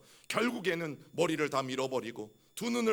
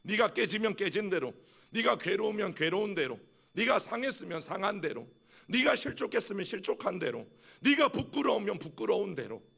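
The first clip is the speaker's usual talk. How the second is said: raised, earnest calling out, a little higher; God urging the broken, raised and earnest; pleading God's voice; 4 semitones higher than usual. Pretend. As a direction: speak as God inviting the broken to come. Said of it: "시편 오십일 편 십칠 절 말씀이".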